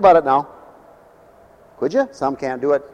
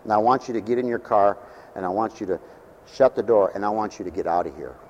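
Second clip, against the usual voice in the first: much softer, lower, firm but hushed; real quietly; 6 semitones lower, 6 dB quieter than usual. Retold or imitated. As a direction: calmly shut down a screaming woman. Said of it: "real quietly".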